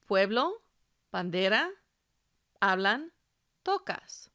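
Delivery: pueblo, bandera, hablan, tocas, each stressed on its second-to-last syllable. Shown as a demonstration. Teacher showing learners Spanish stress, pueblo, bandera, hablan, tocas stressed second to last. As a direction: stress PUE-blo, ban-DE-ra, HA-blan, TO-cas, one word at a time. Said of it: "the stress is on the second to last syllable".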